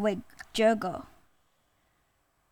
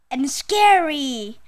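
mildly frightened tiger; lightly acted gasp of dread; a touch of storybook fear; 3 semitones higher, 3 dB louder than usual. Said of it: "gasped Tiger".

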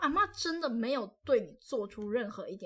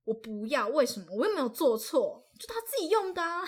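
put-on rising, louder, cheeky child protest; defiant and a bit louder; defiant kid talking back; 3 semitones higher, 4 dB louder than usual. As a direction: talk back like a bratty kid who thinks she's right. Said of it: "好理直气壮哦".

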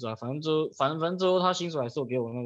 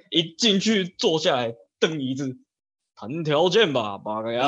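slow, drawn-out cocky bravado; mock swagger; 2 semitones higher, 4 dB louder, slower than usual. Candidate walking in to negotiate terms, mock cocky. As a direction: stretch it out like a hammed-up big shot. Acting out a cocky interview entrance.

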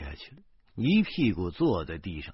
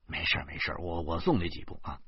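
reassuring aside; 4 semitones lower, 5 dB quieter, faster than usual. Acted. Man insists on escorting teacher.

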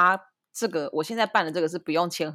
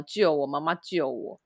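mock crying plea; 4 semitones lower, 4 dB quieter, slower than usual. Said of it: "他就哭啊".

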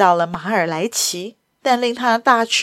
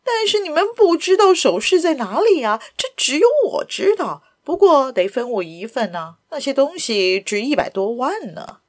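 sly high voice; 4 semitones higher than usual. Acted. Lupin baiting the thugs.

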